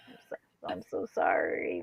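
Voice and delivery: very low, hushed apology; sheepish apology. Retold or imitated. Apologizing to dad for not warning him, sheepish. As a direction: shrink down into a small, low sorry.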